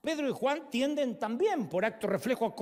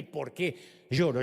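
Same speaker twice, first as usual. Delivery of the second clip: offended; 6 semitones lower, much slower than usual. Acted. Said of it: "creo que se siente ofendida".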